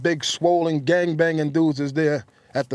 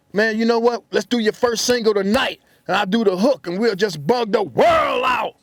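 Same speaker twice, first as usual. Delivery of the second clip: higher, louder, rising to a shout; hyped-up promise; 5 semitones higher, 3 dB louder than usual. Retold or imitated. Friend promising a deal on the spot, loud hyped pitch. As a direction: pump him up like a big promise.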